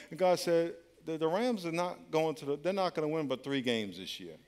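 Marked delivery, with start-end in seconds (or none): 1.0-4.4 calm God. Retold or imitated. God calmly tells the cut player, quiet and sure.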